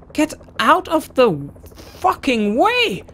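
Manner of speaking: real exasperated scream; furious shout. Real, not acted. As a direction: scream at them to move. Yelling at blocking riders again.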